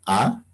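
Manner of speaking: "A" as a pure open Spanish vowel; vowel demonstration. Shown as a demonstration. Teacher points out each Quechua vowel, "A" as in Spanish. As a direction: hold a clean, rising "A". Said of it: "Aquí se pronuncia".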